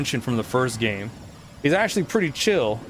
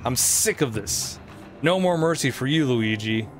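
lightly voiced gloating ghost king; a hint of a smug villain; King Boo voice. Voices King Boo's dialogue.

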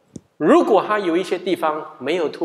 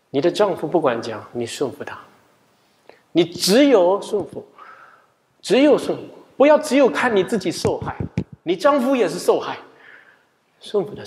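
retold scolding; 2 semitones higher than usual. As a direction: lay down the law to her. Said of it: "那天我就骂了她".

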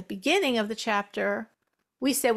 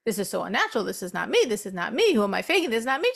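self-doubting mutter; 2 semitones lower, much faster than usual. Acted. Voices a doubter's repeated self-talk.

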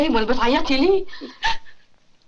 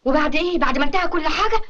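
angry scolding; 5 semitones higher than usual. Acted. Mother scolding girl over scandal.

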